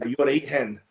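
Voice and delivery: put-on light Glaswegian accent on "You're right, hen"; a mild Glaswegian shop greeting. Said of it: "that would be like Glaswegian".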